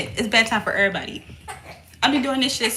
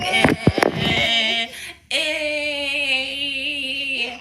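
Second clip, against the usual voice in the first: imitating baby fuss; 3 semitones higher, much slower than usual. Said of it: "He's saying".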